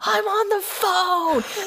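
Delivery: very high, slow, drawn-out yell. Acting out her husband's reply during a shouting match, retelling a yell. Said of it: "we're just yelling back and forth".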